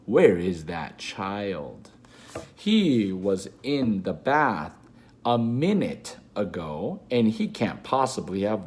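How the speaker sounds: slow, searching mother's call; mummy searching. Retold or imitated. Mother hunting for her child, slow and puzzled. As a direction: draw it out, looking around the room. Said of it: "my mummy comes in and says".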